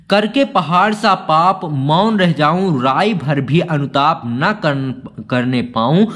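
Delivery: slow, measured recital of Hindi verse; poem recital. Acted. Teacher reciting the poem extract to students, slow recital. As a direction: let each line of the poem land slowly.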